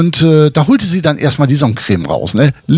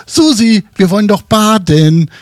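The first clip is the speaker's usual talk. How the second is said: calling upstairs; 5 semitones higher than usual. Retold or imitated. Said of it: "Ich rufte dann hoch".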